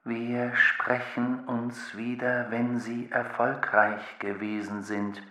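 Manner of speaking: lightly voiced thinking machine, even pitch; formal, measured machine farewell; Maschinenstimme. Denkende Maschine verabschiedet sich. (leicht angedeutete Maschinenstimme)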